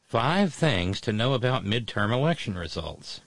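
smooth radio DJ announcing. Shown as a demonstration. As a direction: read it like a radio DJ. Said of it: "I have to go to my D J voice for this".

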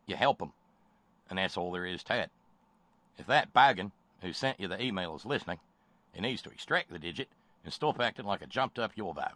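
lightly put-on Australian accent; terrible Australian accent. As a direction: read it out in a badly faked Australian accent. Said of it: "do my terrible Australian accent".

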